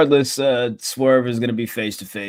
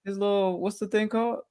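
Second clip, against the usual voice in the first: mocking voice; 11 semitones higher than usual. Mocking Ospreay out of breath.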